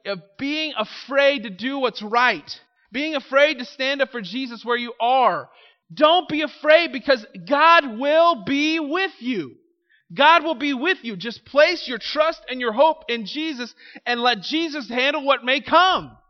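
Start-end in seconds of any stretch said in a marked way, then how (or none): 5.9-16.2 louder, higher rousing sermon; fervent preaching. Acted. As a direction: lift the church with conviction. Preaching at full force.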